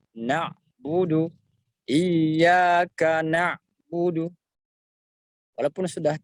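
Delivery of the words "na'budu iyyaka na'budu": "na'budu" with the ain cut off completely, slow; wrong reading, ain fully stopped. Shown as a demonstration. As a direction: shut the ain hard, the wrong way. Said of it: "Jadi tidak boleh dibaca".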